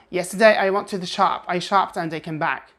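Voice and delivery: brisk American delivery without the lilt; plain American melody; American intonation. Shown as a demonstration. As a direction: say it the American way, quickly and evenly. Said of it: "say it the American way".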